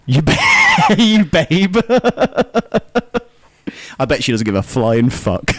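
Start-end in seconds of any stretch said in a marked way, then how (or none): 0.0-1.9 high squeal through laughter; giggling mock you babe; laughing. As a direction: squeal it while cracking up. Repeating friend's phrase mockingly.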